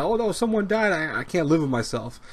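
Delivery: mock-wail like a fan who can't cope; overdone grief for a dead character, half-joking; mock distraught. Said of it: "lose sleep over f-, the fact that".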